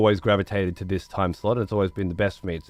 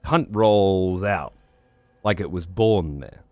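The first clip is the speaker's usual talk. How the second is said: slow, stretched Southern US drawl, a little lower; 3 semitones lower, slower than usual. Retold or imitated. Streamer showing chat how a Texan says it, slow Southern drawl. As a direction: let the word roll out slow in a Texan drawl. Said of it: "With a nice southern drawl?".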